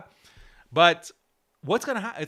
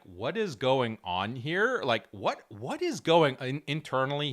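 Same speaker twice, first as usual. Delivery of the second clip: freaking out; 5 semitones lower than usual. Retold or imitated. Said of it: "He's freaking out".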